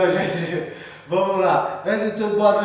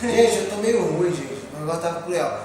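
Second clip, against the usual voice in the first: stuffy nose and sore throat; blocked nose; 5 dB quieter, faster than usual. Real, not acted. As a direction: talk through a blocked nose. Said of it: "Eu tô com a garganta inflamada, tô com o nariz entupido". (nariz entupido e garganta inflamada)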